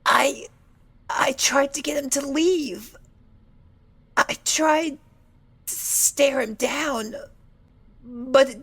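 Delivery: whisper. Acted. Fluttershy recounting attack, whispering.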